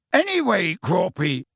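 high-pitched call up to a giant; shouted greeting to someone far above; Hagrid shouting. Acted. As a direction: call out, starting high and falling on the name. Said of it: "shouted Hagrid".

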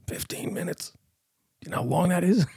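high, squeaky-whispered disbelief; mock alarm. Retells alarmed reply to Kieran.

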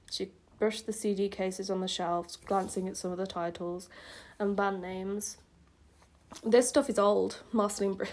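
subdued, even read-aloud; story narration. A narrator's reading. Reads old story aloud.

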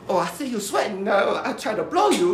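mimicking his date explaining herself; imitating the woman. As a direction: play her as sweetly helpful.

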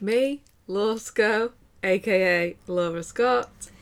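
slow, plummy posh intro voice. Pretend. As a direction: put on a very proper voice. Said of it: "I did my very good posh voice then".

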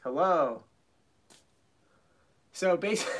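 muffled behind a hand; face in hands. Shown as a demonstration. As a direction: speak through your palm. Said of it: "when my hand's over my mouth that I'm not talking".

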